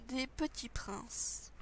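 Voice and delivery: soft slow whisper. Acted. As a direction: breathe the words out slowly. Whispered name of the biscuits.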